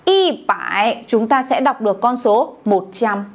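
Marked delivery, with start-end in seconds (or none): 0.0-1.0 "Y bải" said slowly and deliberately; slow model reading. Shown as a demonstration. Teacher repeating the answer to the class, slow. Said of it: "Tổng ba".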